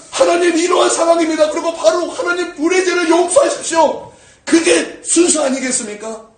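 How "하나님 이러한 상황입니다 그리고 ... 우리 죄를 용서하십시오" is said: high, forceful plea to God; loud, high-pitched supplication; pleading prayer. Acted. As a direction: pray urgently with a raised voice. Acted urgent prayer of confession.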